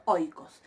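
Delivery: oikos with oi as one falling glide; pronunciación modelo. Shown as a demonstration. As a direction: model oikos clearly, stressed on the O. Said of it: "¿Ven cómo yo pronuncio?". (oikos, con oi en una sílaba)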